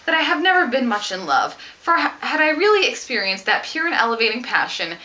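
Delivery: reading a novel aloud. Acted. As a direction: give the heroine's confession a lifted, sincere voice. Reads another novel quote aloud.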